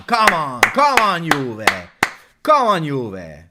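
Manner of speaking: builds from a firm call to loud, high yelling; urging shout. Real, not acted. Fan urging Juventus on during an attack, building shout.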